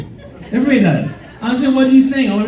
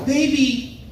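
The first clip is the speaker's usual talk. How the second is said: higher, slow sweet cashier; a lightly voiced sweet cashier, high and slow; 6 semitones higher than usual. Cashier telling him they only have regular ice, slow and high. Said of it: "she goes".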